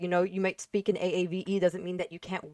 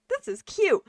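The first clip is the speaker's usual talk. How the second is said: mock gushing; 14 semitones higher, 4 dB louder, slower than usual. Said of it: "people are like".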